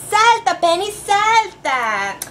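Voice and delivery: a lively cheer for Penny; cheering shout. Acted. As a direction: urge the pony on with a shout. Cheering the pony to jump.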